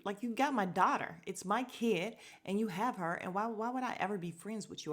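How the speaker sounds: indignant imitation, pushing the words out; retold snapping. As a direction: act out someone snapping at a rival. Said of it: "girlfriend snaps".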